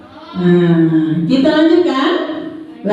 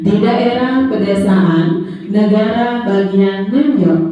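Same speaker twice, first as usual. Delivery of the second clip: put-on reading to a toddler; slower than usual. Reads a story to the children.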